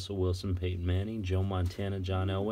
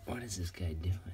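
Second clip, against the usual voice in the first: whisper. Real, not acted. Muttering at cards.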